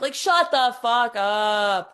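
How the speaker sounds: slow, loud, fed-up snap; exasperated. Real, not acted. Fed up with the climbers, a slow, loud exasperated snap. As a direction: say it like you've had enough.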